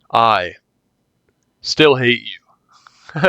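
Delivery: slow, unvoiced whisper; slow sulky whisper; whispered spite. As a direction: breathe it out, sulking. Sulky retort to kidnapper.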